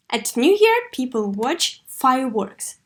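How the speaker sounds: teacher modelling the answer; model intonation. Shown as a demonstration. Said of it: "with the proper intonation".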